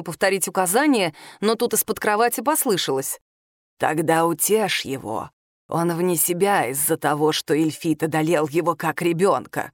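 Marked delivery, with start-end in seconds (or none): 3.8-9.7 low sly voice from under bed. Acted. Adalla speaks from under bed.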